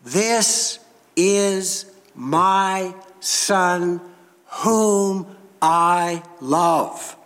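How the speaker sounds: slow, solemn voice of God. Acted. God speaking from the cloud, slow and solemn. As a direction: let God's voice break through, very slow. God's voice breaking through cloud.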